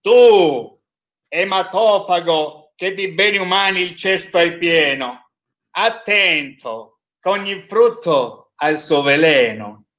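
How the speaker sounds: trained declamatory voice. Acted. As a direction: recite it like a stage actor. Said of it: "Cercherò di avere una voce un pochettino più impostata".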